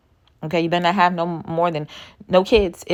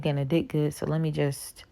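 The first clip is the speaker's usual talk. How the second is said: softer, dropping to a whisper at the end; mock hushed aside; 6 dB quieter than usual. Vlogger imitating a woman swayed by a man, hushed whisper. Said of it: "and you're like".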